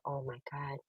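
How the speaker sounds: breathless, soft voiceless whisper; shocked whisper. Retold or imitated. Shock at news of death.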